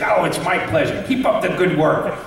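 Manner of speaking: put-on light, friendly old-man voice, lightly done; a gentle nod to Stan Lee's cheerful greeting; Stan Lee impression. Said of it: "as Stan Lee".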